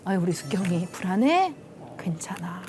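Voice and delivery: husband comforting softly. Retold or imitated. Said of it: "그리고 이렇게 말했어요".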